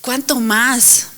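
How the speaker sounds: slow, drawn-out weary plea; imitated frustration. People praying for years ask the Lord, frustrated. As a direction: stretch the question out as if frustrated. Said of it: "se siente una frustración".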